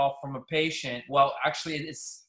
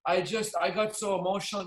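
higher, lightly voiced sorry lady; mock apologetic caller; 5 semitones higher than usual. Caller apologizing after seeing the prices, lightly mocked. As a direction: play her backing down, a bit pitiful. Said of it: "She goes".

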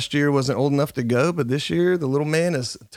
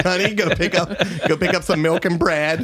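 lightly voiced higher wife, laughing through it; nagging wife, mock; 4 semitones higher than usual. Wife sending her husband shopping, lightly mocked. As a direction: send him on an errand like a wife, half laughing. Voicing wives with a shopping list.

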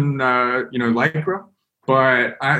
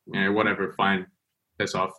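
softer, bored brush-off; dismissive ship crew; 5 semitones lower, 8 dB quieter than usual. Retold or imitated. Ship crew on the radio, mock dismissive. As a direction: wave them away like you couldn't care less. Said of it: "they were like".

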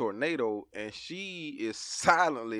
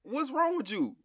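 concerned dad; 9 semitones higher, 4 dB quieter than usual. Retold or imitated. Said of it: "and I'm like".

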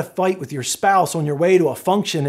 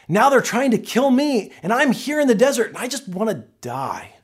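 angry Elijah; 4 semitones higher than usual. Acted. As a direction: voice Elijah's anger, then let it collapse. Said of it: "He was angry".

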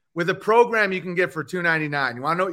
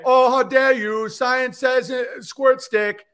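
mock indignant; 5 semitones higher, slower than usual. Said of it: "where they say".

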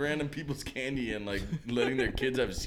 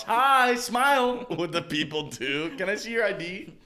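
louder, higher pushy dad at the door; overprotective dad; 7 semitones higher, 5 dB louder than usual. Acted. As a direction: play a paranoid father checking IDs. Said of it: "overprotective dad on Halloween".

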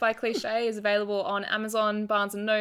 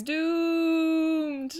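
Bender voice; 8 semitones higher than usual. Retold or imitated. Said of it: "where he goes".

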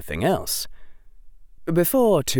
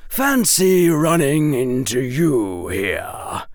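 slow, louder, icy mock pleasantry; cold and severe; 4 semitones higher, 4 dB louder, slower than usual. A narrator's reading. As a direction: menace her politely. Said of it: "sounding rather severe and cold".

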